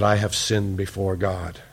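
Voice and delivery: low, hushed admission of guilt; broken confession. Retold or imitated. David confessing his sin to God, broken and subdued. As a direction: imitate someone finally giving in, softly. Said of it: "David just finally breaks".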